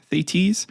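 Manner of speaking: Thetis as THAY-teez, rising questioningly; alternative pronunciation. Shown as a demonstration. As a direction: try out Thetis with a long -teez ending. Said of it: "I might be pronouncing her name wrong".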